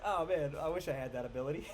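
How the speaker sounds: fast, laughing through a wistful wish; mock envy, giggling. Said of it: "And I was like".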